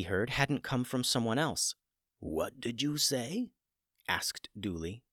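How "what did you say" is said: stunned disbelief. Acted. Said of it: "Dooley looked doubly shocked".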